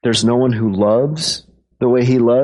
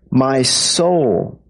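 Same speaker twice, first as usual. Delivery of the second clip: emphasis landing on "soul"; stress on SOUL. Shown as a demonstration. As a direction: lean on the word "soul". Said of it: "I'll put the emphasis on the word soul".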